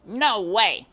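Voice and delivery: high, loud flat refusal; high, loud mouse refusing; dismissive brother mouse. A narrator's reading. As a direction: shut him down firmly. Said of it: "he said".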